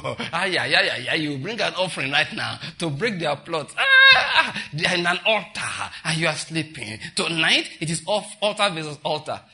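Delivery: loud, hammed-up preacher urgency; mock alarm. Mimicking preachers demanding offerings to break plots, in mock alarm. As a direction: exclaim it like an overwrought altar-battle preacher.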